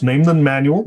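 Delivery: usual speaking voice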